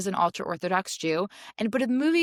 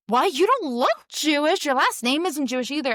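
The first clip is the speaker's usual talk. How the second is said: puzzled agent; 6 semitones higher, 4 dB louder than usual. Retold or imitated.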